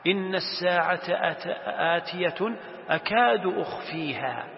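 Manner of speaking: slow recited verse with a restart; recite, stretching the final words; Quran recitation. Acted. Teacher reading the verse on the Hour, reciting.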